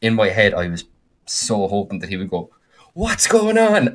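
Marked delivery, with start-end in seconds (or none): 2.9-3.9 much higher, sing-song "What's going on?"; mock innocent question. Halfling asking innocently through the door, much higher voice. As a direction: squeak it out like a clueless halfling. DM imagines player calling out.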